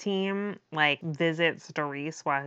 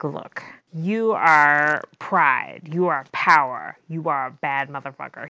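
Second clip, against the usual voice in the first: pep talk; 5 dB louder than usual. Retold or imitated. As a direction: pump him up like a coach in the mirror. Give him a pep talk.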